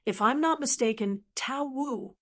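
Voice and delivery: tense, forced through clenched teeth; through gritted teeth. Acted. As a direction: grit your teeth on the name. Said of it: "answered through gritted teeth".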